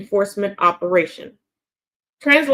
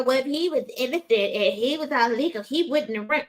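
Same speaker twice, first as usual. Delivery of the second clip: mock apologist; 3 semitones higher, 4 dB quieter than usual. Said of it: "Don't sit there and go".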